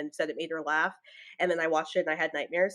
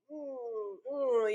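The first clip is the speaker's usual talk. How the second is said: wincing little hums; cringing "mm"; 4 semitones higher, 5 dB quieter than usual. Retold or imitated. Viewer hearing cheesy dialogue, cringing. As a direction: squirm in a wordless groan. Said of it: "you're just cringing".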